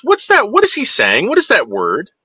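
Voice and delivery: lightly voiced puzzled little kid; curious kid. Kid asking parents about an overheard word, puzzled. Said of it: "And the kid goes".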